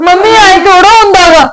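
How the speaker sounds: tearful, voice catching on sobs; crying. Acted. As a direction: speak through tears to mum. Daughter crying to her mother. (ਰੋਂਦੀ ਹੋਈ ਆਵਾਜ਼)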